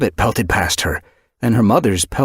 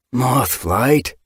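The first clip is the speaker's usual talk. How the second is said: pitying call; 5 semitones higher than usual. Acted. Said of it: "more pity than anger in his mew".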